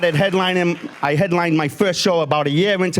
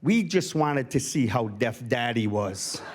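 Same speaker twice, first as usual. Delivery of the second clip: put-on sheepish kids; 10 semitones lower, 4 dB quieter than usual. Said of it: "just like this".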